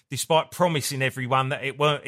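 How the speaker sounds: normal talking voice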